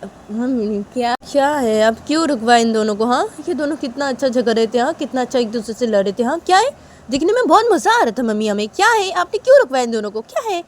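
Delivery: complaining sister. Acted. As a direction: protest mom stopped the fun. (ऊँची आवाज़ में शिकायत करती बहन)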